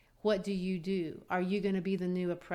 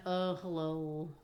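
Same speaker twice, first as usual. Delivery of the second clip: buffoon; slower than usual. Retold or imitated. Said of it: "he just comes like a complete buffoon".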